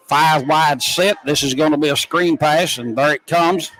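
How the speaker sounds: live football call of a pass play. Real, not acted. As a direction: track the ball as it moves.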